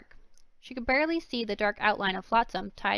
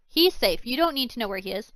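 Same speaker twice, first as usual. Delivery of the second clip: snapping; 6 dB louder than usual. Acted. Villain snaps at girl.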